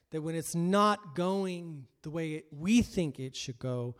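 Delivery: ordinary talk, nothing marked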